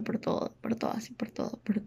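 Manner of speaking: whispering through held-back tears; choked up. Real, not acted. A sister holding back tears while praising her brother. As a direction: voice falls to a tearful whisper. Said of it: "voy a llorar de nuevo".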